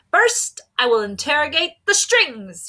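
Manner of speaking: high, loud proclamation; pompous inspector crying out his plan; cried out. A narrator's reading. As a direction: announce it loudly to the whole room. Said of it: "he cried".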